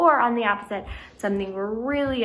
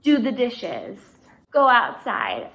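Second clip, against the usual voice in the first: command; 4 dB louder, slower than usual. Shown as a demonstration. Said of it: "Those are all things that are commands".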